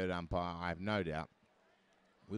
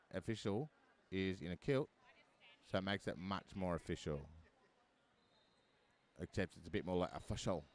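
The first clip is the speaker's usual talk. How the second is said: a weak mock Scottish burr on official; terrible Scottish accent; 2 semitones lower, 4 dB quieter than usual. Commentator jokes about the kilted ref in a bad Scottish accent. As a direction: roll the r's badly in a put-on Scottish accent. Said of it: "that's the worst Scottish accent ever".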